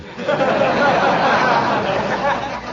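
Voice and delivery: high rolling self-satisfied chuckle. Acted. Uncle laughing at his own old saying, high rolling chuckle. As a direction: laugh at your own wit, rising high.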